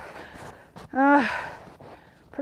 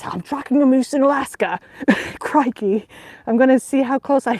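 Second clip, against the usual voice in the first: Steve Irwin. Retold or imitated. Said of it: "I'm imagining Steve Irwin's voice".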